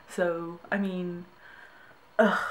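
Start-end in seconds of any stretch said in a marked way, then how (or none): 2.2-2.4 short groan of exasperation; exasperated ugh. Real, not acted. Brit fed up with American questions, exasperated ugh. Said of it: "gonna be doing ugh more often".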